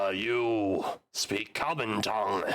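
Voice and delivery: slow, halting broken common; a goblin groping for words in a foreign tongue; goblin bad at common. Goblin to the party, halting in broken common. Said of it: "he's not good at common".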